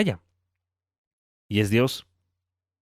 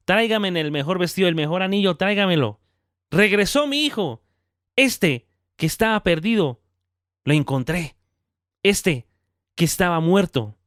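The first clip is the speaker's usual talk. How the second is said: a father calling his workers in overjoyed; joyful call to servants; 6 semitones higher than usual. Retold or imitated. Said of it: "Le grita a sus empleados". (el padre llama a sus empleados con alegría, voz alta y lenta)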